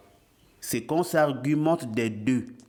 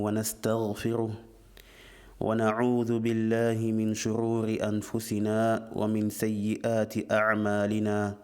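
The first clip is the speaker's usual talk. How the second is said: measured, even-toned Arabic recitation; formal opening invocation; 2 semitones lower, faster than usual. Acted. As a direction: recite the opening formula on a level, monotone pitch. Recites the opening sermon formula. (invocation d'ouverture récitée, ton monocorde)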